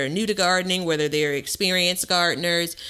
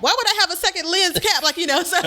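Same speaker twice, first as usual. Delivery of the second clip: laughing, higher, rising into a squeal; 12 semitones higher, faster than usual. Real, not acted. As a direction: laugh through the words at yourself. Laughing at own camera mistake.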